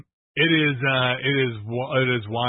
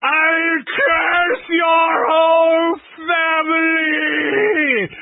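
laying a curse; 14 semitones higher, 4 dB louder, much slower than usual. Retold or imitated. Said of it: "and she's like".

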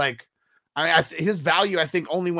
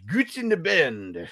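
put-on German accent; slower than usual. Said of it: "I was trying to get a German accent on".

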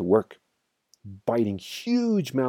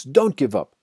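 raised, urgent plea, lightly acted panting; panted; 5 semitones higher, 5 dB louder than usual. A narrator's reading. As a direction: urge them on, short of breath. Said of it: "panted Mister Fox".

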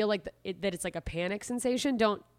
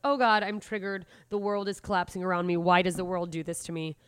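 mock panic. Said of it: "You don't have to go".

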